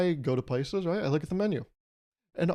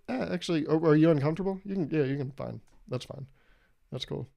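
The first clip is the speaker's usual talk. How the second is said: timid robber backing down. Acted. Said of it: "Imagine a timid robber".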